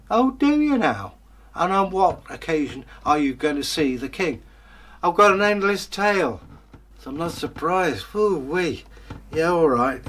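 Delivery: high, loud, mocking guard voice; sneering guard. Guard taunting the beggar at the gate, high and sneering. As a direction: look down your nose at the beggar, squeaky and scornful.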